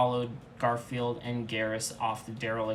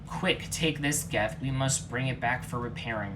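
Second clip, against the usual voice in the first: order. Acted. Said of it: "ordered Garfield".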